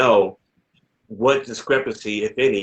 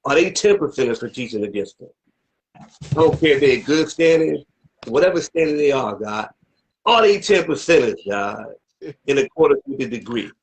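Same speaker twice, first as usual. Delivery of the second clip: raised, pressing questioning; insistent challenge; 4 semitones higher than usual. Real, not acted. Demanding whether they are ten percenters, insistent and raised. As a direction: push for an answer, voice lifting on each demand.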